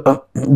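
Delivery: short mock retch in the throat; imitated gag. Shown as a demonstration. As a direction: act out a brief gag of disgust. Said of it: "nggak boleh bersihin sambil". (tiruan suara mual singkat)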